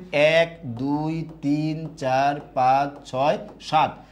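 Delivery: very slow, drawn-out count. Shown as a demonstration. Teacher counting letters for the class, slowly number by number. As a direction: count deliberately, stretching each number.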